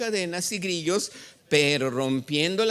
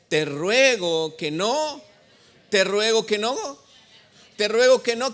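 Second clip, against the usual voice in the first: pleading cry; 3 semitones higher, 5 dB louder than usual. Acted. Demoniac begging Jesus.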